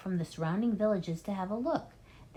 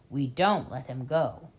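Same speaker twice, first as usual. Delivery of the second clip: low grim voice; 5 semitones lower than usual. Acted.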